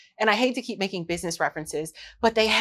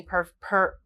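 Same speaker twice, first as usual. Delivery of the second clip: stumbling restart on a word; tongue-tied false start; stutter. Real, not acted. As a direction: trip over the first syllable. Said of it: "excuse the stutter".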